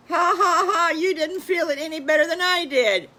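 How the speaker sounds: high, loud laughing piglet voice. Acted. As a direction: laugh through the words at your brother. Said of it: "Pigley starts laughing".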